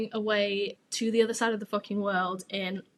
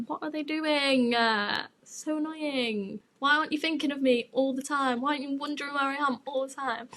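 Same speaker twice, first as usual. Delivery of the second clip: a petulant whine with stretched words; whiny impatience; 3 semitones higher than usual. Retold or imitated. Waiting for him to come back, whiny impatience.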